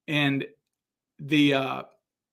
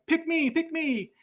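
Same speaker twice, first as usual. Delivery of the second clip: mock pleading; 13 semitones higher, 4 dB quieter, slower than usual. Photo lineup begging to be picked.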